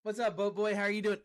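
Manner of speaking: high and loud, delighted hello; excited greeting. Real, not acted. Streamer greets a friend joining the chat, loud and excited. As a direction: greet a buddy who just showed up, beaming.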